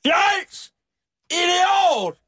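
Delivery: shrieked mock insults, very high; imitated shouting. Host re-enacting man's shouts at police officers, high mock yell. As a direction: yell it like an outraged man at police. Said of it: "reagerede han ved at råbe".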